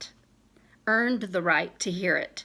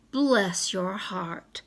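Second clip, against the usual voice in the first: Southern bless your heart; slower than usual. Retold or imitated. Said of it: "or the Southern vision".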